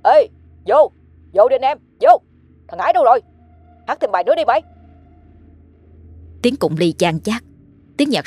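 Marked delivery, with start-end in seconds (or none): 0.0-4.6 put-on loud, higher slurred drunk man; a drunk shouting at a party; drunken slur. A narrator's reading. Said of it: "tiếng đàn ông lè nhè". (giọng lè nhè say xỉn)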